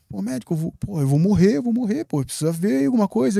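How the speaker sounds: scared he's dying, begging for help; panicked pleading. Retold or imitated.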